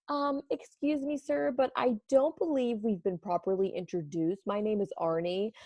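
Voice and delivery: butter him up sweetly; sweetest voice. Acted. Donut sweet-talks the man to hide his plan, sugary voice. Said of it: "said in the sweetest voice".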